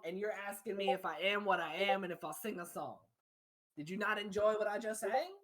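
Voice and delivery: put-on light Australian accent. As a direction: speak like a singer from Australia. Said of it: "now he's Australian".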